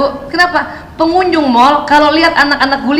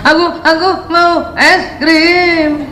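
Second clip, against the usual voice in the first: put-on slow, drawn-out child's whine; whiny child; much slower than usual. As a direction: beg like a little kid. Child voiced asking ice cream. (rengekan anak kecil yang pelan dan panjang)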